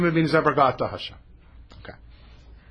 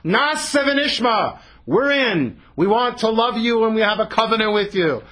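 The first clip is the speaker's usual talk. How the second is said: eager yelling out; 5 semitones higher than usual. Retold or imitated. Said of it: "you were all yelling out to God".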